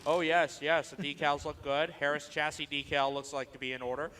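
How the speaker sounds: lightly voiced pompous art critic; a hint of a snooty connoisseur; art critic impression. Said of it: "my art critic impression".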